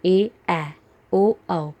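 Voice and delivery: ए, ऐ, ओ, औ said slowly and clearly, short then long vowel; teacher sounds out ए vs ऐ and ओ vs औ for kids; vowel pairs demo. Shown as a demonstration. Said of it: "तो यही इनका फ़र्क है". (ए, ऐ, ओ, औ को साफ़ अलग-अलग बोलना)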